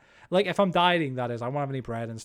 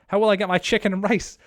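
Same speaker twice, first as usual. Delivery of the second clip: louder, higher mock despair over losing rice; mock outrage; 5 semitones higher, 7 dB louder than usual. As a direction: whine it like your dinner was stolen. Reading chat, mock dismay over rice.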